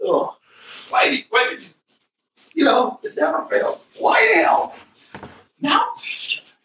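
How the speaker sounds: words stretched and half-voiced through a yawn; cursing through a real yawn; yawning while talking. Real, not acted. Podcaster caught by a yawn curses co-host's mention of it, yawning. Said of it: "and I yawned".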